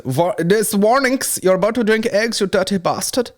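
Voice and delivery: scolding the drinker like a stern label; mock warning voice. Reading the bottle warning aloud in a high mock voice.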